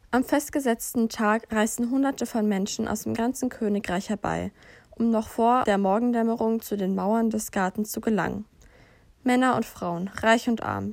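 calm, even storybook voice; fairy-tale narration. A narrator's reading. Reading a wizarding fairy tale to a friend, calm storytelling. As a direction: tell it like a bedtime fairy tale.

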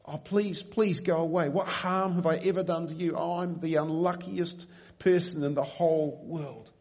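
put-on a terrified boy begging the unseen thing to leave; almost screaming. Frightened boy begging a dark presence to go away, near screaming. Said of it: "he said almost in a scream".

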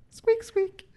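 high squeaky squeak squeak; mouse squeaks. Pretend. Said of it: "I'll go next".

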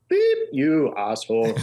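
drawn-out mock insult, lightly in character; Arnold. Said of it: "In his best Arnold thing".

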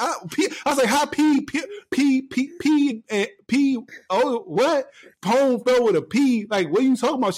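put-on high, slow, unsure kid voice spelling; mock small boy guessing letters; imitated little kid. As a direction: spell it out like a lost child. Kid baffled.

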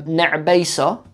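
slow word demo. Shown as a demonstration. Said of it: "I know a word".

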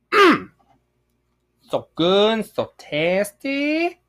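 high, slow, blissful mmm and praise; mock ecstatic candy praise; savoring candy.

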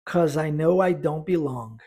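slow, even practice line; slow repetition drill. Shown as a demonstration. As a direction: pace it slowly for students to echo. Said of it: "Vamos repetir?". (repetição lenta para praticar)

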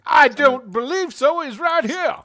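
high, loud frantic character voice; panicked character. Acted. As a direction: beg for help in a panic. Character insists zombie is there.

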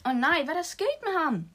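high, loud frightened cry; panicked shout. Acted. Girl sees injured friend and shouts in panic. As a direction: yell it in horror. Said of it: "du skal stoppe med at råbe".

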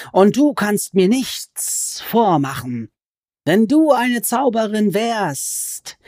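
high, slow, wheedling creature voice that climbs on each nein; sly goblin voice. Acted. Goblin crouched over Alice, complaining she is a sorceress, in a high sly voice. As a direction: stretch the words like a gloating, sulky goblin.

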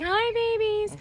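put-on whispered baby talk. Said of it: "and I'm like".

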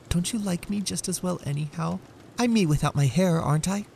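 put-on high, pleading young wife; pleading Della. Wife pleading with husband about her hair, high. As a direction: beg him to still love her.

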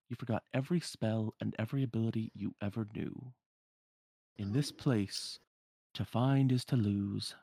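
measured, deliberate mystery figure; cryptic hooded man. Acted. The hooded man explains the castle to intruders, measured and cryptic. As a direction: lightly voice a knowing riddler, slowing on the riddle.

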